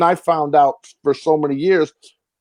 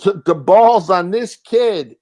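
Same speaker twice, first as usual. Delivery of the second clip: slow, a touch higher, mock-impressed producer; lightly voiced impressed boss; 4 semitones higher, 3 dB louder, slower than usual. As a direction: savor it like an amused big shot. David Chase voiced in story.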